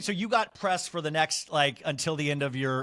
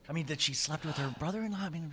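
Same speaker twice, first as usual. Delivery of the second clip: hushed, near whisper; 7 dB quieter than usual. Real, not acted. Host sharing a cast member's admission about her brother-in-law, hushed near whisper. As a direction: drop well down in volume, confiding gossip. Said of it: "why are we whispering?".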